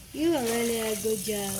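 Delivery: yawning while talking; words stretched by a yawn. Real, not acted. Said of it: "Oh, I keep yawning".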